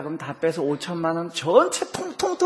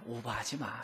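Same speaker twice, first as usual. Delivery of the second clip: quiet self-rebuke; 6 semitones lower, 18 dB quieter than usual. Shown as a demonstration. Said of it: "자기 가슴을 두드리면서 얘기합니다".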